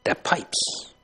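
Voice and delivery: a hushed, breathy echo of the phrase; whispered echo. Real, not acted. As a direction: softly whisper the words back. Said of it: "that is to reject him that pipes".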